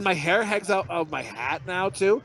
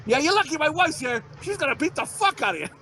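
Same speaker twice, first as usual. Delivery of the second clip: mock tough taunt; 8 semitones higher than usual. Acted taunt to other driver.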